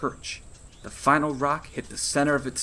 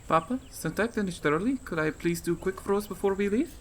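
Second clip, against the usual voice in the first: put-on higher girl's voice, asking sweetly; a daughter begging her papa for more play; eager little girl; 9 semitones higher than usual. Child asks father.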